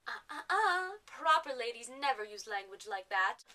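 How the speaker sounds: prim posh lady tutting; Poshnia. Acted. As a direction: cut in to scold like a proper lady. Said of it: "we've gotten rid of Poshnia".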